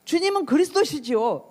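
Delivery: high, confident declaration; acted-out confident reply; full of conviction. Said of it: "확신에 차서".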